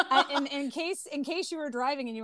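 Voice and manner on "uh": loud snorting laugh. Real, not acted. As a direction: burst out snorting. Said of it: "that was my pig snort".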